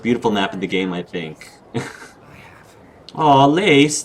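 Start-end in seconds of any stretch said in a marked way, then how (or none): 3.1-4.0 higher, affectionate aww; touched cooing. Real, not acted. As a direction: coo at a sweet name. Touched by character's pet name.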